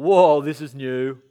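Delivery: slow, loud astonished whoa; amazed crowd. Retold or imitated. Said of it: "And everyone's going".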